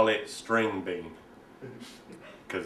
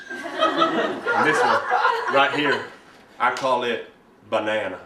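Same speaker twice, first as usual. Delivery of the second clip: eager show-and-tell; 6 semitones lower, slower than usual. Acted. Son unveils next prized stirrer.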